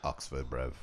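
badly faked London accent; mock British accent. Echoing the Oxford joke, mock British accent. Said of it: "It's a British accent, bruv".

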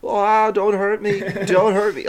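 high, loud mock pleading; hammed-up plea in a put-on California accent; Hans Gruber's fake American. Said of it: "a American California accent in that one scene".

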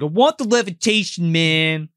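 lighter retelling. Retold or imitated. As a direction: say it again, toned down. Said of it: "He's like".

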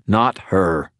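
gruff growl. Acted. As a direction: growl it out, in pain. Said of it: "I growled".

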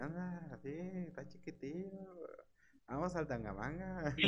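affectionately imitating a San Luis Potosí accent. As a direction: mimic the wife's family's San Luis Potosí accent, half-joking. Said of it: "Con los acentos así, bueno, pues, que así más o menos hablan".

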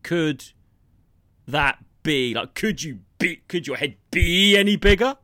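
lightly mimicked sarcastic stress on BE; Chandler catchphrase. Quoting Chandler's catchphrase to a co-host, lightly mimicked sarcasm. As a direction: drag out "be" like a sitcom wisecrack. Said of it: "His catchphrase was".

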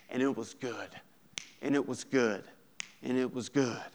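measured scriptural refrain, falling gently each time; resting cadence. Shown as a demonstration. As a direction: let each repeat come down to rest on "good". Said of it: "there's this pace There's a cadence".

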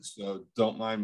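words muffled by chewing; chewing while talking. Real, not acted. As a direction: mouth full of food. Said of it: "I am eating".

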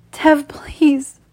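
high, breathy-voiced plea acted over narration; pleading. A narrator's reading. Narrator voices bound woman begging her lover, pleading. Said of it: "I whisper".

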